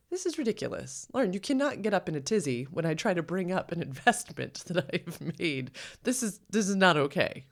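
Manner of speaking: starts high and exasperated, imitating him; light mock of an annoyed partner. Mimicking partner's complaint.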